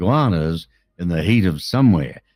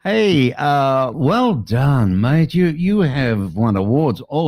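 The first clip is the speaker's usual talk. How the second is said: exaggerated Aussie cheer; 6 semitones higher, much slower than usual. Real, not acted. Host hams up Aussie congratulations.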